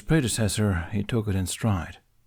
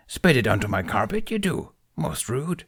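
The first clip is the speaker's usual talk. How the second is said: chiding Yoda; 4 semitones higher than usual. Acted. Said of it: "Yoda chided".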